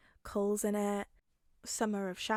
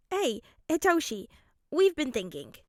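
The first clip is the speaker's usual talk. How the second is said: light higher man's voice, a touch playful; Hisashi's voice; 5 semitones higher, 8 dB louder than usual. Acted. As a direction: voice the dad warmly teasing.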